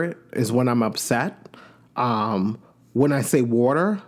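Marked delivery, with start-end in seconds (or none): 3.4-4.0 water with a New York accent. Shown as a demonstration. Host showing where the old accent survives, New York accent. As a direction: let the Long Island accent out on water. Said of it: "the only times you hear my accent".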